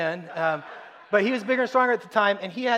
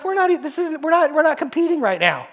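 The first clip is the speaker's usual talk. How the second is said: exasperated dad; 10 semitones higher, 6 dB louder than usual. Retold or imitated. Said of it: "And I'm like".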